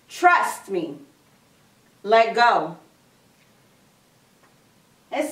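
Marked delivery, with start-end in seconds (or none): 0.1-2.8 low, measured, assured command; calm insistence. Acted. God urging Jack to trust and let go, calm insistence. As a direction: say it low and firmly.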